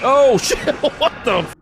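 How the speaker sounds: loud, high startled yelp. Real, not acted. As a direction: jump at a sudden attack. Suddenly attacked by a demon.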